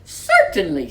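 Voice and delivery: kangaroo agreeing. Acted. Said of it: "said the kangaroo".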